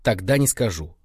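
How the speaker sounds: mock vengeful, drawn out at the end; vindictive. Boy mimics rival guide withholding a warning, vindictively. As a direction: imitate a spiteful rival, savouring the last words. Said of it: "А она так мстительно".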